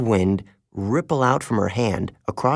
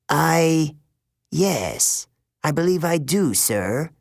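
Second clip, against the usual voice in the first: dazed teacher; 4 semitones higher, slower than usual. A narrator's reading. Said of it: "The woman blinked ... woken her up from a trance".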